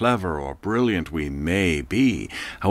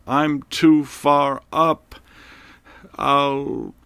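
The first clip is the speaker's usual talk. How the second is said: panicked yelling; 8 semitones higher, much slower than usual. Acted. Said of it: "he yelled up".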